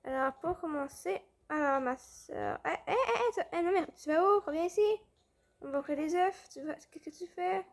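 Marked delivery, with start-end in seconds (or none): 2.7-4.8 calling out. Real, not acted. Calling sister back in game.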